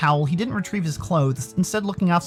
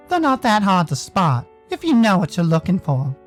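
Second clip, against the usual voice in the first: Sal; 3 semitones higher, 4 dB louder than usual. Acted. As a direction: take your time, in character as someone unimpressed.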